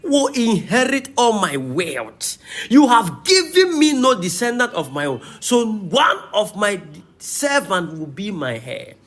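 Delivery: emphatic, rise-and-fall Bible reading; preacher declaiming a dialogue from scripture. Acted. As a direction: read the passage out to a congregation. Reads scripture aloud.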